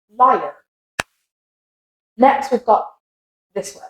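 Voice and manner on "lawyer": American liar (lawyer) with final R; liar, lawyer with open vowel, American; American accent. Shown as a demonstration. Teacher contrasting lawyer with British, American accent. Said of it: "In an American".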